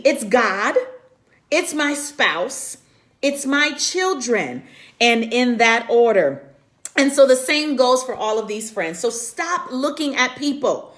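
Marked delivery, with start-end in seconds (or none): 0.0-6.5 slow, each phrase set apart for the crowd to echo; slow call to repeat. Shown as a demonstration. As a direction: say it slowly with pauses so they can repeat it. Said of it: "So let's repeat after me".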